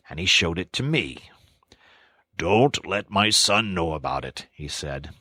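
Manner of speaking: put-on a solemn old friend confiding; grave Badger. Badger tells of Toad's father.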